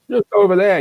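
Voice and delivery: imitated hard-of-hearing man, loud and high; Alan's loud talk. Hard-of-hearing friend pointing to an envelope, imitated loud voice. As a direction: call out like someone who can't hear himself. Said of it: "he speaks quite loudly".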